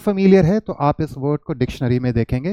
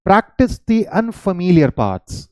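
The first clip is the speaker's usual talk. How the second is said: slow dictation; 4 semitones higher, much slower than usual. Shown as a demonstration. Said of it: "fourth, यानी कि इसी part को".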